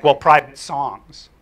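slow, deliberate correction; matter-of-fact. Retold or imitated. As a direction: set the record straight, slowly. Girl correcting, slowly.

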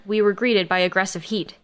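usual speaking voice

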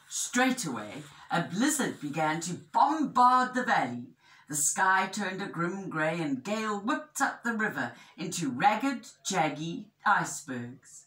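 animated picture-book narration; measured, expressive storytelling; story reading to children. A narrator's reading. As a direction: tell it clearly to young listeners.

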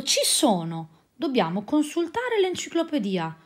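eureka, he's found the answer; joyful exclamation; exultant. Acted. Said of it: "esclamò esultante".

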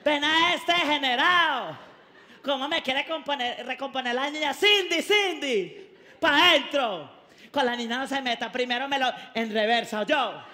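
mother-in-law screaming off her daughter's suitor. Retold or imitated. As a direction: yell at the suitor from the door. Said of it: "sale la suegra gritando".

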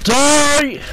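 sharp high yell; shout. Real, not acted. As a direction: bark it at the enemy. Gamer shouting in a fight.

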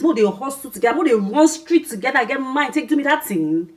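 rising loud indignant rant. Acted. Betrayed friend ranting about her old friend, loud.

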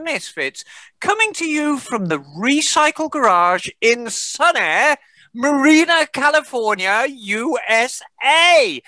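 upbeat radio host welcome; show host intro. Acted. Host welcoming listeners to Motorcycles and Misfits, announcer voice. The host opens the podcast show.

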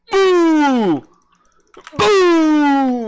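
mock explosion sound. Sound effect for attack.

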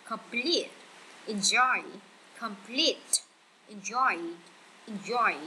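light first syllable, stronger PLETE and JOY; stress on second syllable. Shown as a demonstration. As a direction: Complete as comPLETE, enjoy as enJOY. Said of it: "đọc nhẹ mạnh cái âm hai hơn". (đọc nhẹ âm đầu, nhấn âm hai: comPLETE, enJOY)

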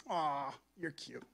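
low, soft and slow, mock-sweet; condescending cooing aside; patronising coo. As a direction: coo it like talking to a baby.

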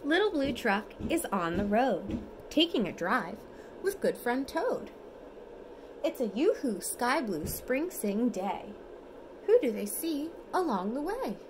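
lively storybook reading, sing-song; reading to children. Acted. Parent reads bedtime picture book to toddler, lively sing-song. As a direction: read it brightly for a toddler at bedtime.

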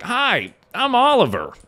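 high, chirpy imitation of a TikTok girl; mock a cutesy girl introducing herself; mock girlie persona. Streamer mocking a TikTok girl's alter ego, high and chirpy. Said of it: "And she's like".

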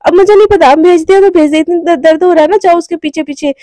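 mildly cross, waving someone away; huffy dismissal. Acted. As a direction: snap it off, then ease down. Acted huffy dismissal in quarrel.

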